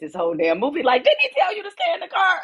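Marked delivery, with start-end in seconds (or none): 1.0-2.4 very high-pitched, pitched-up yell. Retelling watching the movie at home, yelling at the kids on screen: imitating own yelling at the screen. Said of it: "I was yelling at your kids".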